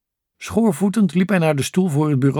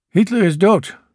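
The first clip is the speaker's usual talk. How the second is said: grave announcement, a little raised; understated gravity with firm emphasis; 4 semitones higher, 4 dB louder than usual. A narrator's reading. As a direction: deliver it as weighty news. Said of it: "zei Churchill ernstig".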